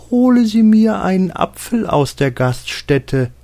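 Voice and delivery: commanding order, pitched high; herrischer Befehl. Acted. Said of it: "befahl er etwa der Haushälterin". (hoher, gebieterischer Befehlston)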